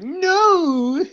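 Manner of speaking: high loud retold no; shout. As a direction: blurt a loud refusal. Retelling brother's shout.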